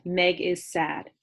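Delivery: Meg is sad, slow and even in one breath. Shown as a demonstration. Teacher modelling reading in one breath. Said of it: "I can say that whole sentence in one breath".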